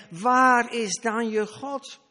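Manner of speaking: 1 mocking taunt. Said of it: "In twijfel trekken".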